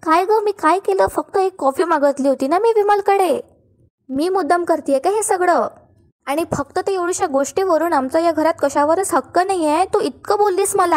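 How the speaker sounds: a mild teary, wronged plea; hinting at put-on tears played for the family; fake tearful. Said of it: "ती डोळ्यात पाणी आणते".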